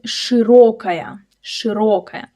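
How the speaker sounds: "широкая" with a clear, stressed O; full stressed O. Shown as a demonstration. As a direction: hold a full O in the middle of "широкая". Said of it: "watch out the O in the word".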